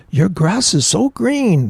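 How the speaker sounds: put-on high, slow Spanish accent; lightly voiced Spanish accent. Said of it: "That's my Spanish accent".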